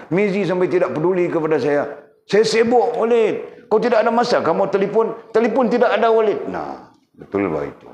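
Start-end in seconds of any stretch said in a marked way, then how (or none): 0.1-6.4 much higher, louder whiny complaint; complaining wife. Retold or imitated. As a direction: mimic a wife grumbling to Walid, pitched up high. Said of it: "Yana datang mengadu dengan Walid". (meniru isteri merungut, suara jauh lebih tinggi)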